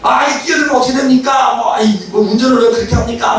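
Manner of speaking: acted roadside grumbling; verbal complaint. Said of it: "말로 해요".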